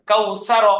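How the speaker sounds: "কাউসার" in one piece, pitched slightly up; whole-word pronunciation. Shown as a demonstration. Teacher showing the first step of reading, "কাউসার" pronounced whole. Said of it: "উচ্চারণ".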